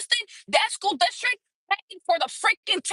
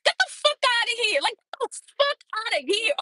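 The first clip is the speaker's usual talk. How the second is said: loud when mad; 5 semitones higher than usual. Real, not acted. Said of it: "my voice get, I get really loud".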